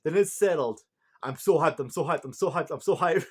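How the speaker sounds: a touch of loud excited chanting; mock hyped kid; hyped Anubis. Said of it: "Anubis like".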